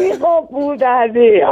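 laughing insult, slow, as the prank sinks in. Real, not acted. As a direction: swear through real laughter at being fooled. Prank revealed, caller laughs.

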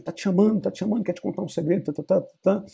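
high, fast, pushy urging; nagging friend tugging at Hamlet, high and quick; urgent Horatio. Acted.

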